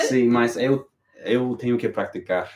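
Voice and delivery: Spanish-tinged Portuguese. Real, not acted. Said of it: "Your accent is so garbage".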